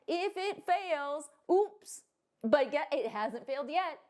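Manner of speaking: hammed-up lender pitch in a bad put-on accent; mock lender's accent. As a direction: do a terrible accent as the dodgy lender. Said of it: "I don't know why it has an accent".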